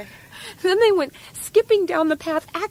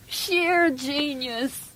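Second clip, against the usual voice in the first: very slow, savoured admiration; slow admiring praise; much slower than usual. Acted. Tied-up woman savouring the scissors idea, slow admiration. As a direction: stretch out each word in wonder.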